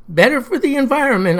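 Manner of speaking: flat robotic monotone. Acted. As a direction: parrot it back like a robot. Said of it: "I parroted back in a robotic voice".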